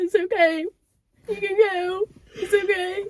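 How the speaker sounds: mock very high, very loud tearful crying wail. Retelling how her mum cried in the car at drop-off, imitating her mum crying. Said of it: "She literally started crying in the car".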